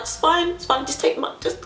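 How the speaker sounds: high, dismissive mock huff; flustered attitude, without raising the volume; retold attitude. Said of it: "had an attitude".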